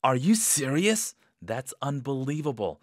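stunned, rising question; amazed disbelief. Shown as a demonstration. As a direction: hear lottery news and can't believe it. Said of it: "나 복권에 당첨됐어".

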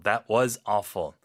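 flat judgment of a bad job; blunt verdict. Shown as a demonstration. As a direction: say it like a harsh critique. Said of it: "정말 못했다라고 했을 때".

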